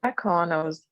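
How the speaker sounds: choppy bad connection; words cut by dropping Wi-Fi; breaking up. Real, not acted. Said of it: "Sorry, you're breaking up".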